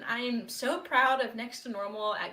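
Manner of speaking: breathless, thrilled thanks; acceptance speech. Real, not acted. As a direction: gush with real excitement. Surprised winner accepting award.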